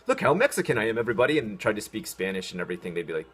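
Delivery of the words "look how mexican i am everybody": mock tourist. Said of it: "and I'm like".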